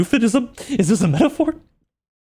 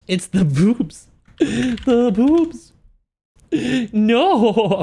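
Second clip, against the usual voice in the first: excited exclaim; 5 semitones higher, much slower than usual. Real, not acted. Exclaims at the drawing.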